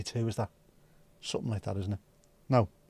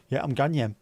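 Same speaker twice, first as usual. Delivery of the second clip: Geordie accent. Shown as a demonstration. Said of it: "they say they're ganyem".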